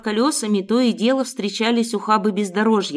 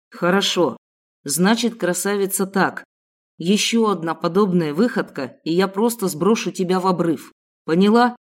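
lightly voiced kidnapper; 2 semitones lower than usual. Kidnapper threatens captive.

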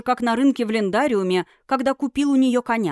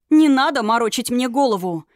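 louder, angry shout; 3 semitones higher, 5 dB louder than usual. Acted. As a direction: shout him down. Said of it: "закричала Юна".

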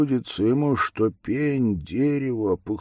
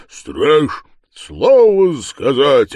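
louder, slow roar; bear's roar; 5 semitones higher, 10 dB louder, slower than usual. Acted. The bear mocks grandpa, roaring. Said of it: "ревнул медведь".

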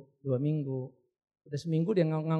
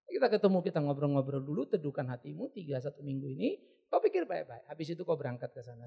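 lower, softer, reassuring advice; soothing counsellor; 4 semitones lower, 3 dB quieter than usual. Retold or imitated. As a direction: talk an upset caller down gently. Counsellor soothes upset caller. (menenangkan dengan suara rendah dan lembut)

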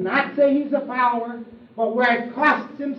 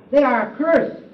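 scornful condemnation; 3 semitones higher, 8 dB louder than usual. Acted. Pharisees condemning the crowd.

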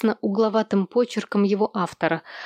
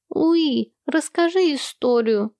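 put-on whining child; 6 semitones higher, slower than usual. Little Sam begging his sister for a story, whining. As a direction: plead like a little boy whining. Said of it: "захныкал малыш Сэм".

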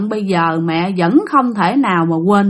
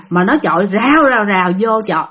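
stone rattle sound. Retold or imitated. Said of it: "imitating stones pelting again".

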